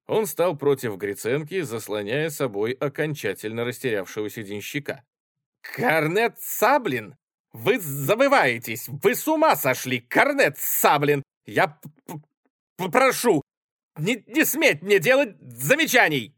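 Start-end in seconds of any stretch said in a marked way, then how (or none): 5.6-16.3 stammering rage. Acted. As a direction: choke on the anger. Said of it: "Заикаясь от гнева, воскликнул Гриценко". (заикаясь от гнева)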